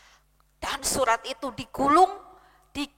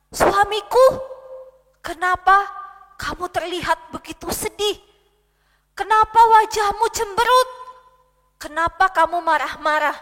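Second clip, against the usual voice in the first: concerned queen; 4 semitones higher, 3 dB louder than usual. Acted. Queen asks sulking husband.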